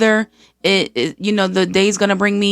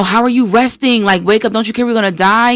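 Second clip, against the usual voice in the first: lightly acted alarm, quick at the end; mock panic; 3 semitones higher than usual. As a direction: imitate disciples in a mild panic. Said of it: "the disciples are too panicked".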